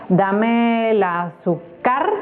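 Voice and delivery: AZÚCAR stressed on its last syllable, CAR rising and drawn out; shifted stress on AZÚCAR. Shown as a demonstration. Teacher testing where the accent falls, stress shifted to end of AZÚCAR. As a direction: slowly test AZÚCAR as azuCAR. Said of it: "Y lo podemos ver".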